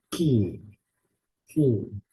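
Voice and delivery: "ki" from the back of the throat; guttural sound. Shown as a demonstration. Teacher showing the letter's guttural sound, "ki" from back of throat. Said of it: "Kind of a guttural sound".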